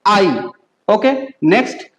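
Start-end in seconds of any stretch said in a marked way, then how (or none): 0.1-0.3 आई as one gliding "eye"; distinct आई, rhyming with "eye"; joined EI sound. Shown as a demonstration. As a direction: say German ei as आई. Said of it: "क्या होगा".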